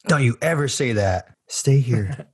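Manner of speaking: quoting the line. Retold or imitated. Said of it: "So he goes".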